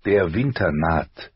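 slow narrated family motto; solemn motto. A narrator's reading. Narrator quotes the house's words, slow solemn motto. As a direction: spell out the motto slowly, word by word. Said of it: "lauteten die Worte der Starks".

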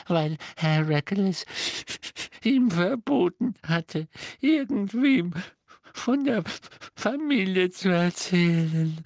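a lightly voiced grieving house-elf; hint of a tearful elf servant; house-elf Kreacher. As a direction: speak as the broken old elf. Kreacher tells his story.

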